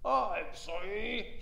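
slow, rattled dragon stammering sorry; a scared dragon backing down; spluttering apology. Acted. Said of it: "he spluttered".

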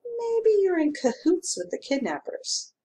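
a hint of a grumbling country constable; small-town constable complaining mildly; gruff constable. A narrator's reading. Constable accuses stranger.

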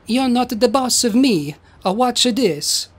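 lightly voiced defiant Italian son; Roberto voice. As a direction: defy him with a touch of Italian accent. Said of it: "Roberto goes".

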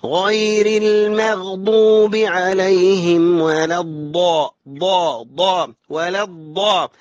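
slow chant landing heavily on الضا; forceful dad. Shown as a demonstration. Teacher drills students, slow chant with strong heavy ضا. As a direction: press hard onto repeated ضا. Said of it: "تنزل على الضاد بقوة".

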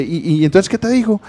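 laughing through the retelling; riendo. Retold or imitated. Recounts taking notes, laughing. (contándolo entre risas)

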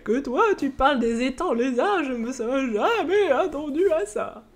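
a doddering elder, missing the stutter; old man voice. Shown as a demonstration. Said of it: "Ça manque de bégaiement".

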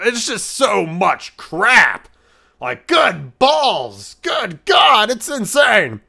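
high, slow, whining overwhelmed wail; mock wail. Overwhelmed by multiverse clones, whining and wailing. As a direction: wail like the world is too much.

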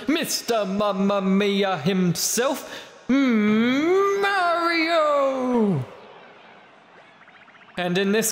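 lightly voiced ring announcer; boxing announcer. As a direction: hype up the fight like a ring MC. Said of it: "this boxing announcer voice".

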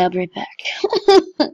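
slow whispered aside; slow hushed mock-sad exit line. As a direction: whisper it slowly like you're off to cry. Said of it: "I'm just gonna go cry".

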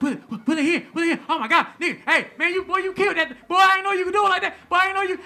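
loud, high, fast gushing praise; excited gushing. Retold or imitated. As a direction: rave about the set like a hyped promoter.

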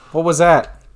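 startled scream. Real, not acted. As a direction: ask it rattled.

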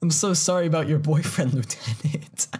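hammed-up sorry, ending in a laugh; mock sympathy. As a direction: overplay the line to mock it. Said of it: "Sarah's saying it".

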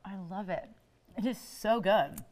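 chewing while talking, slow; mouth full. Real, not acted. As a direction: talk through a mouthful of salad. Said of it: "I'm gonna talk with my mouth full here".

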